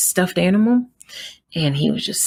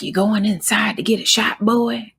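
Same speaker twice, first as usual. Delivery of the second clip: imitating the older man's sneering question, pitched up; mocking old man; 6 semitones higher than usual. Mother mimics the old man asking her son about a shot, condescending. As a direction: mimic a condescending stranger talking down to a child. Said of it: "the way the inflection in the word boy".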